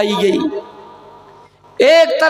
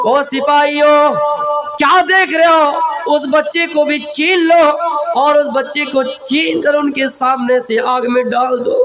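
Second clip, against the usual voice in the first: a king barking orders at soldiers; tyrant's command. Acted. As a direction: command the guards without mercy. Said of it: "फिरौन ने हुक्म दिया अपने सिपाहियों को".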